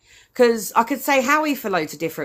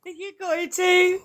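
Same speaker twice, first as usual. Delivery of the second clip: slower, higher British accent, played up for her; exaggerated British accent, drawn out on too; hammed-up British accent; 9 semitones higher, slower than usual. Shown as a demonstration. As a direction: lay the British accent on thick for a fan. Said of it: "You got to say that again. That was, I love your accents".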